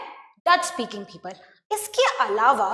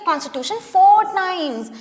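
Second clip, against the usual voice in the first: slow dictation; 4 semitones higher, 5 dB louder, much slower than usual. Real, not acted. Teacher finishing dictation.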